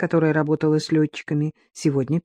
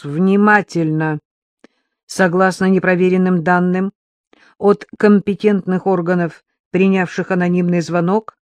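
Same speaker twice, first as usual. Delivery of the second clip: crisp radio call; 4 dB louder than usual. Acted. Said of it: "чётко произнёс".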